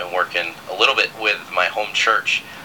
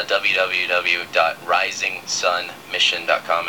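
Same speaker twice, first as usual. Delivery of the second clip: slow spelled-out web address; slower than usual. Shown as a demonstration. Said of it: "and that's rising S O N".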